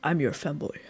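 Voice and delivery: femboy ASMR voice. Acted. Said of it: "Hey, babe, I'm a".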